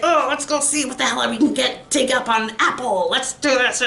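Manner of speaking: mildly mocking, imitated angry griping. Commenter imitating angry people digging up dirt, mildly mock angry. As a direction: put on a touch of someone else's anger. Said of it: "being angry, like".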